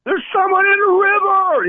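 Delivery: imitating a frantic scream for help; retold scream for help. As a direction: yell it out like a panicked man at the river. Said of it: "so the guy starts screaming".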